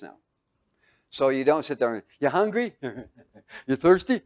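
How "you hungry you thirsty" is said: mock careless offer. Mocking a careless charity.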